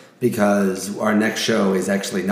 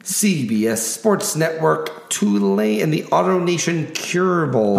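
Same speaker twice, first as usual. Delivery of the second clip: announcer voice. Acted. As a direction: hype each matchup like a ring announcer. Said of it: "I get to get my announcer voice on".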